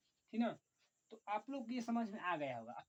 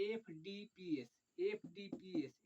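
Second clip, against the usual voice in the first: slow dictation; slower than usual. Shown as a demonstration. Teacher dictating the order to students, slowly. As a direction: say एफ़डीपीएस letter by letter, slowly. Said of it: "अब हम एफ से चलेंगे".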